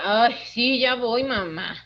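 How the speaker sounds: mock an eye-rolling teenager; sulky teen reply. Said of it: "le digo a mi hijo".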